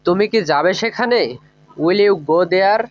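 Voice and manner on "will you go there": each word spoken slowly and clearly for learners; teacher modelling a question slowly; slow, careful English. Shown as a demonstration. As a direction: lay out every word so students can copy it. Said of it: "এভাবে।".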